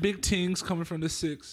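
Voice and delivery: put-on slow, high Toronto accent; Canadian accent. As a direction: lay on a thick Toronto slang. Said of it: "I have a fucking shitty Canadian accent".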